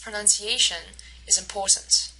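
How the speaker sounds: "Pronunciation is important" stressed on A and POR; stress-timed English rhythm. Shown as a demonstration. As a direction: other syllables light in "Pronunciation is important", A and POR strong. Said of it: "A is stressed and po is stressed".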